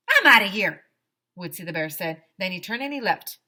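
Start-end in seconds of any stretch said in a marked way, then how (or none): 0.1-0.9 loud fed-up exit line. Acted. Woodsy leaves the nagging kids, loud fed-up exit. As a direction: bail out loudly, done with it.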